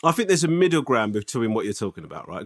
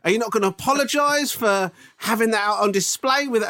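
put-on higher-pitched indignant old man complaining; grumpy old man; 6 semitones higher than usual. A customer scolds the shop assistant like a grumpy old man. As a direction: play a fussy old customer demanding an apology. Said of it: "I turned into such a fucking old man".

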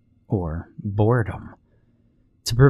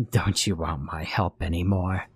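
soft, lower creepy crone; very old woman; 3 semitones lower, 5 dB quieter than usual. Acted. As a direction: taunt sweetly like a hag. Monster chases the girl.

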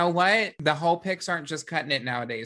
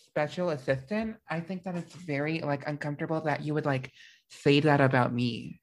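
Drew Barrymore impression. Host playing an offended assistant, lightly voiced actress impression. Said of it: "are we doing Drew Barrymore accents".

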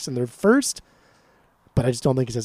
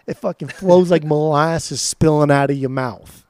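put-on Southern Savannah accent; 4 dB louder than usual. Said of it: "Why'd you have an Italian, like, New Jersey accent".

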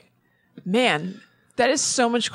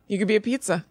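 whisper; faster than usual. Real, not acted. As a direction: breathe it as a secret. Whispered suggestion.

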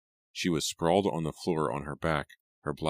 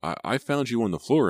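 shaken; 7 semitones higher, 5 dB louder than usual. Acted. Simon shaken, relieved.

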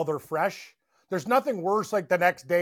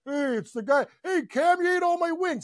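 high, raised teasing complaint; mock whiny accusation; 10 semitones higher than usual. Bar guy griping to Cam about eaten wings, high mock whine. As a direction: needle him about the wings.

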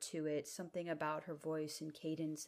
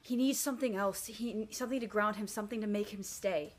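urgent; 4 semitones higher, 4 dB louder than usual. Acted. Naya urgently asks room.

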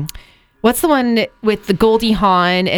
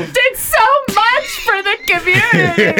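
old movie impression; slower than usual. It's a Wonderful Life impression.

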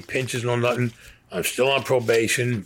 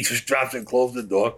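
usual speaking voice

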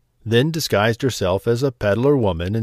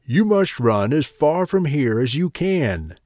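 urgent huntsman; 4 semitones higher than usual. Acted. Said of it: "he told her".

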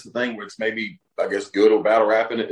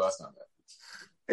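mock YouTube algorithm; 2 semitones lower, 10 dB quieter, much slower than usual. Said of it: "YouTube's gonna pick this up and go".

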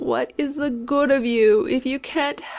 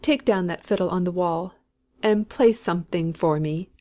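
imperious command; 3 semitones lower than usual. A narrator's reading. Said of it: "she said imperiously".

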